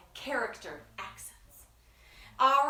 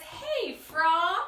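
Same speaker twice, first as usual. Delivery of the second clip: cat voice; 5 semitones higher, 3 dB louder than usual. Acted. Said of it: "And it says".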